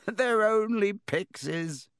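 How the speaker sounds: high, slow, chuckling call; laughing shout. A narrator's reading. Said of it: "Lockhart shouted".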